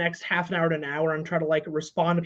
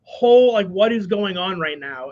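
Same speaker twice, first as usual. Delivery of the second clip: amazed; 5 dB louder than usual. Retold or imitated. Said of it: "I was like".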